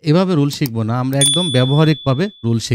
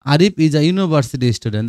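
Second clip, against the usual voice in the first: slow example sentence; much slower than usual. Shown as a demonstration. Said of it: "দেখো ইউ এর মতো উচ্চারণ হয়েছে".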